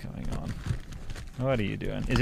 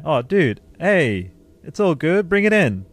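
affectionate, higher-pitched comforting coo; vocal hug; 5 semitones higher, 4 dB louder, slower than usual. Real, not acted. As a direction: wrap your friend in a big hug with your voice. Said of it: "hug you with my voice".

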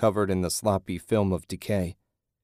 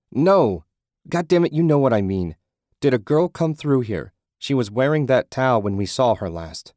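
angry outburst; 5 semitones higher, 5 dB louder than usual. A narrator's reading. Ted losing his temper.

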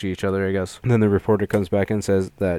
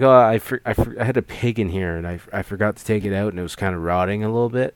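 startled, loud "Oh" that tumbles into a fast, nervous excuse; mock panicked excuse to the sheriff; flustered excuse; 4 dB louder than usual. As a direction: caught out and covering quickly. Ed caught out by the cop.

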